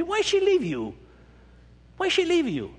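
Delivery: high, indignant challenge; getting angry. Acted. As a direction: demand an answer, worked up. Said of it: "I'm getting angry".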